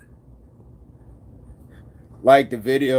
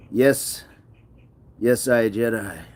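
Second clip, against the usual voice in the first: mock Jamaican; slower than usual. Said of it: "is it more like a Jamaican".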